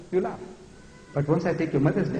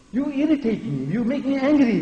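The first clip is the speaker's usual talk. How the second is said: irritated; 6 semitones higher than usual. Acted. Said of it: "I get irritated".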